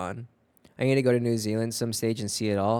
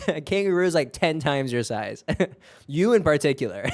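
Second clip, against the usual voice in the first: laughing tease; 4 semitones higher than usual. Real, not acted. Teasing a viewer, laughing.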